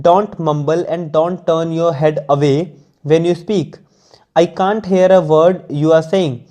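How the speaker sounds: slow, measured English read-aloud; deliberate dictation-like reading; careful text reading. Acted. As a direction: read it out slowly, phrase by phrase.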